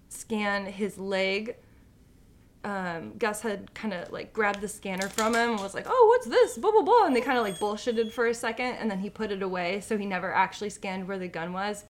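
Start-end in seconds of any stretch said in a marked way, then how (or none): 5.9-7.0 high breezy brush-off; mock dismissive. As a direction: wave it off lightly, acting casual. Dismissive mock quote of Gus.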